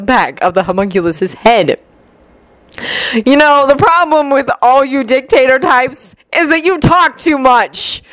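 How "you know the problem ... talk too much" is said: hoarse and dry, slowing at the end; a dry, hoarse jab. A narrator's reading. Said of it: "a hoarse voice commented dryly".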